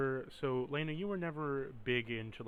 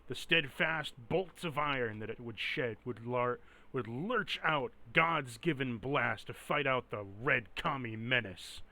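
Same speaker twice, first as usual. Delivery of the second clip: propaganda announcer; 3 dB louder than usual. Acted. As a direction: boom it out like a wartime newsreel. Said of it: "in the propaganda terms".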